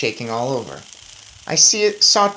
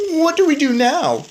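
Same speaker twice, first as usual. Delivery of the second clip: much higher and louder, a tiny mouse voice; Bruno the mouse; 11 semitones higher, 4 dB louder than usual. A narrator's reading. Bruno answering his friend, high little mouse voice. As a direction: pipe it up like a small mouse.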